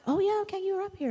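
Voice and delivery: high, quick surprised realisation; pleasantly surprised. Real, not acted. Teacher spotting the young learners already up front, surprised. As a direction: catch yourself, suddenly noticing them. Notices children already came up.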